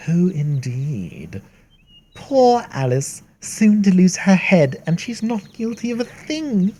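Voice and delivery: sly Cheshire Cat. Acted. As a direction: purr out riddles like a grinning cat.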